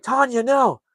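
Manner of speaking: acted-out desperate call; mock anguished plea. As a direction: wail the fiancée's name, hammed up. Retold pleading with fiancée on phone.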